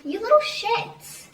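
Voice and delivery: high, slow, drawn-out rebuke; exasperated scolding. Real, not acted. Storyteller scolding barbaric little kids, exasperated high rebuke. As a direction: scold them high and stretched out.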